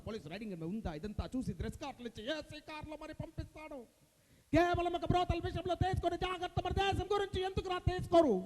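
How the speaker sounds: dramatic public accusation with pointed pauses; Prakash Raj impression. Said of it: "Prakash Raj గారు వచ్చి ఇక్కడ dialogue చెప్పినట్టు".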